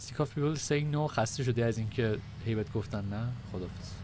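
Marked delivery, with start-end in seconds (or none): 0.1-1.1 stretched-out echo of the ad line, very slow; slow ad imitation. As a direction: drag each word like a slow TV pitch. Echoing the game ad slowly. (تقلید آهسته و کشیده از تبلیغ)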